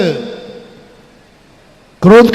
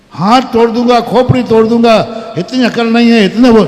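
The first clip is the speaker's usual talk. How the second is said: angry threats; 2 semitones higher than usual. Acted. Father and son coming at the wife with sticks, furious. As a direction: shout the threats with rising anger.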